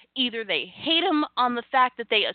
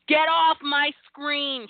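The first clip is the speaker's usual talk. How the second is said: slow, drawn-out catchphrase, a bit higher; slogan voice; 4 semitones higher, much slower than usual. Shown as a demonstration. Pitching a slogan for a Hulk Hogan shirt, slow catchphrase delivery. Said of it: "get me a Hulk Hogan shirt".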